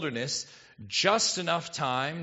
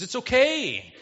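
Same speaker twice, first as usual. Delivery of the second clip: usual speaking voice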